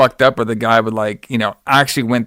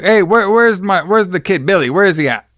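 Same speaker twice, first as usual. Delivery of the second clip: searching father; 7 semitones higher than usual. Retold or imitated. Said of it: "And he's like".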